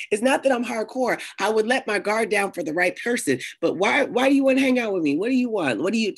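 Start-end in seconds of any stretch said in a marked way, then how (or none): none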